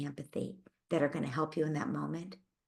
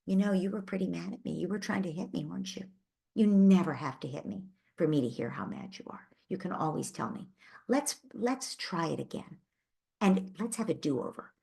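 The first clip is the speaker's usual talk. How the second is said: gentle do-over talk. Shown as a demonstration. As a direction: coax the child kindly back to try again. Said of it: "and then you say".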